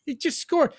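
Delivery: put-on high, whiny little-kid voice; slow, high-pitched sheepish kid. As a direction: explain yourself like a scolded child. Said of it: "like a little kid".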